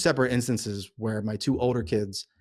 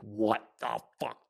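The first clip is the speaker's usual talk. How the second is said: stunned disbelief; 4 semitones lower, 3 dB quieter, much slower than usual. Retold or imitated. Retold shock at crawling figure.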